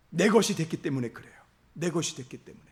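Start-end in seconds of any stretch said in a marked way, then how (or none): 1.7-2.6 "내 것이 됐기 때문에" repeated much softer, letting it sink in; soft echo. Real, not acted. Pastor echoing the point to the congregation, softly. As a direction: drop the voice and echo it quietly.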